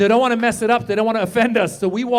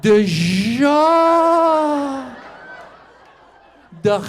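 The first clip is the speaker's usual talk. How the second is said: nervous teacher stumbling; 5 semitones higher, 3 dB louder than usual. Retold or imitated. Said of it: "They're like".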